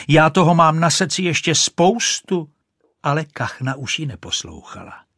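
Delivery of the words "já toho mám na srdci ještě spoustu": high, louder calling after her; shrieking on. Acted. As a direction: keep shrieking after the duck. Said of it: "ječela Rachejtle". (vysoký, hlasitý křik za kachnou)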